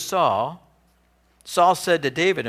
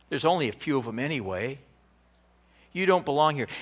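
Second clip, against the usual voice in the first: demeaning. Retold or imitated. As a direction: talk down to him like a kid. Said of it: "a demeaning quality surfaces".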